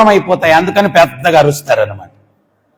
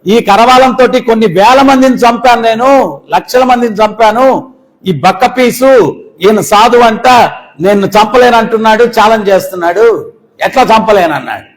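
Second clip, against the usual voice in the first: mock threatening king; 4 semitones higher, 3 dB louder than usual. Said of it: "ఆ కత్తి దూచి అన్నాడు".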